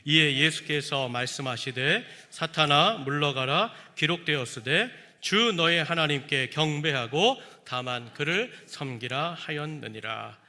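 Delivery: slow, solemn scripture reading. Shown as a demonstration. Pastor leading the congregation in reading, slow and solemn. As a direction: read it aloud together, slowly and gravely. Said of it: "우리 한번 다 함께 읽겠습니다".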